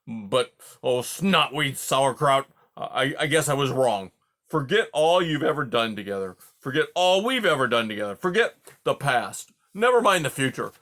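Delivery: put-on hurt old porcupine ranting at his friend; offended rant. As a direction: rant on, wounded and sarcastic. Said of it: "exploded Aerith".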